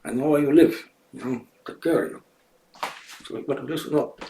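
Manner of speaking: a lightly voiced tough guy making threats; mock tough guy threat. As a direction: play a half-hearted hoodlum warning someone. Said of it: "I could talk like this".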